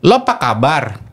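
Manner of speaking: a hint of Jakarta slang, slightly forced. Bali friend forcing Jakarta slang, lightly imitated. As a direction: lightly put on Jakarta slang, a bit stiff. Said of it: "teman-teman di Bali yang kadang maksain".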